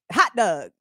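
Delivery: Baltimore "hot dog", dog said as "dug"; Baltimore accent. Shown as a demonstration. Host repeating the local pronunciation, Baltimore accent. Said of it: "comes out is in Baltimorean".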